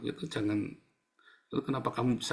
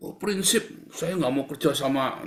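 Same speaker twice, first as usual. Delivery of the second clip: mock high voice; 3 semitones higher than usual. Mock voice of principled person.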